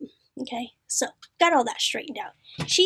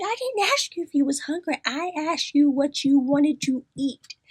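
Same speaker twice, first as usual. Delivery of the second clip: stern parent tone; 2 semitones higher than usual. Retold or imitated. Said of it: "do her like the kids".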